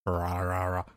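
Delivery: talking through a mouthful; chewing while speaking; mouth full. Real, not acted. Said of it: "Sorry, I'm eating at the same time".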